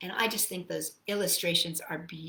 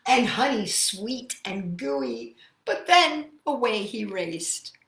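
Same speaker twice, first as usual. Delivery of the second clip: lilting rhyming read-aloud; story reading; slower than usual. A narrator's reading. Teacher reading the bear's rhyming verses to children, lilting. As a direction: savour each rhyme for the kids.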